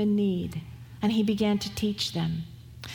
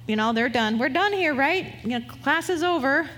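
higher, brisk mock-impatient voice; impatient disciples; 4 semitones higher than usual. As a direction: toss it off like tired workers wanting to quit. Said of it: "they're ready to".

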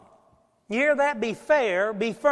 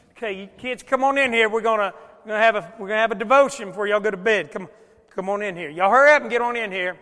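put-on louder, brisk parent calling kids in; 8 dB louder than usual. Dad calling kids in for devotion, brisk and loud. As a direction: round up the kids for bedtime devotion.

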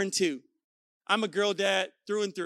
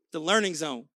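lower, weighty naming of the learning zone; low dramatic reveal; 7 semitones lower than usual. Real, not acted. Speaker unveiling the next zone to listeners, low and weighty. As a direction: drop the voice to unveil it.

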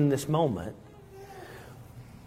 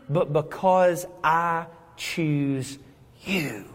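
tender Christ; 2 semitones higher than usual. Acted. Christ reassures the chosen believer.

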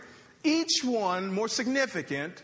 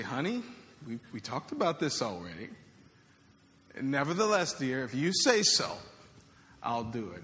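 grudging husband; 5 semitones lower than usual. Retold or imitated. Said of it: "perhaps the tone here".

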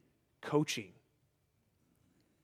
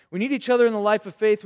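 louder and fast in one sweep, "We need each other in the life of faith"; emphatic repeat; 3 semitones higher, 6 dB louder, faster than usual. Shown as a demonstration. Preacher to young people, loud emphatic repeat. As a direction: drive it home with force.

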